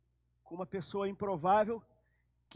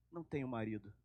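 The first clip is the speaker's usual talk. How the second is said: much lower and softer, ashamed; ashamed murmur; 9 semitones lower, 10 dB quieter, faster than usual. Acted. Samaritan woman answering Jesus in shame, low and soft. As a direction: say it small, head bowed.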